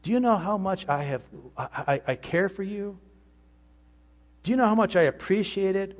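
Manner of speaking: loving Holy Spirit voice. Acted. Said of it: "The Holy Spirit would say something like this".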